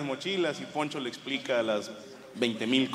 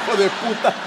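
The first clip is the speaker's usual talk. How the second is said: laughing curse out loud, higher; 5 semitones higher, 6 dB louder than usual. Real, not acted. Comic laughing at his friend's kept phone, loud laughing curse. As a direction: blurt it out laughing.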